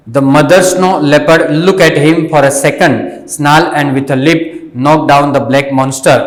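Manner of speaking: slow, carefully paced reading aloud for learners; slow story reading. Shown as a demonstration. Teacher reading the story slowly to the students. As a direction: read each word out slowly and clearly.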